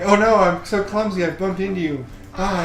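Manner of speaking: high, hammed-up clumsy apology; mock clumsy girl. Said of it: "In the traditional".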